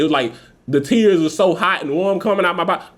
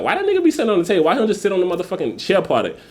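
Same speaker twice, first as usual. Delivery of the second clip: puzzled viewer; 4 semitones higher, faster than usual. Retold or imitated. Voices viewers questioning his seat.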